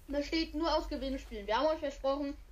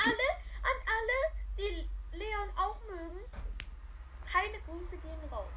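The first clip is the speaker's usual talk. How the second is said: laughing; 9 semitones higher than usual. Real, not acted. Joking shout-out, laugh heard.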